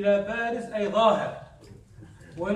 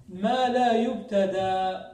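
slow, drawn-out verse reading; verse recitation; slower than usual. Retold or imitated. Teacher reading out the next phrase of verse, slow recitation. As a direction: stretch each long vowel as in reciting. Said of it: "في قوله هنا".

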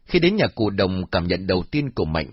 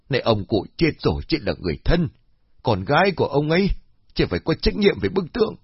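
sharp, higher, fast scolding; snapping; 4 semitones higher than usual. Acted. Old woman snapping at the daughter, sharp and scolding. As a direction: snap at her like a cranky old woman. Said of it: "Cô Khiết liền gắt".

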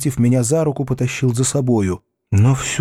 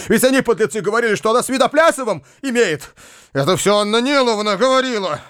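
desperate outcry; 7 semitones higher than usual. A narrator's reading. Uncle, jumping from his chair, cries out in despair. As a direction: panic rising, he can't sit still. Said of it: "вскричал он в отчаянии".

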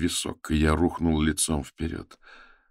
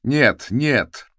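higher, louder cry; terrified no; 9 semitones higher, 6 dB louder than usual. A narrator's reading. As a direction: scream no in terror.

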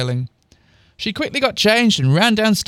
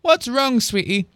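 higher, lightly voiced motherly question; concerned mum; 7 semitones higher than usual. A narrator's reading. Mum looks back at her daughter, gently concerned. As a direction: ask tenderly in a lifted voice. Mum comforting in acted quote.

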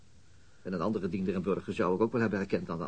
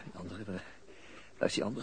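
much softer, halting and weak; groggy, struggling; 2 semitones lower, 7 dB quieter than usual. Acted. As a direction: push the words out through the daze. Bijkomend na knock-out. (gewonde man, zwak en haperend)

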